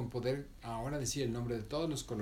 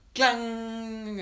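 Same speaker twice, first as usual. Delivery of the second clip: clang; 11 semitones higher, 8 dB louder than usual. Shown as a demonstration. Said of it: "así".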